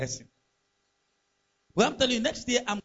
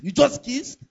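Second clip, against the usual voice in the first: shocked echo; 6 semitones higher, 5 dB louder, slower than usual. Retold or imitated. Preacher's shocked echo of excuse.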